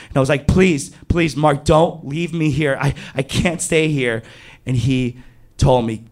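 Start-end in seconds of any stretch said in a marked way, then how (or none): 0.5-4.2 higher-pitched, urgent begging; desperate pleading. Retold or imitated. Storyteller begging his friend not to leave, acted pleading. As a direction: act out a plea not to be abandoned.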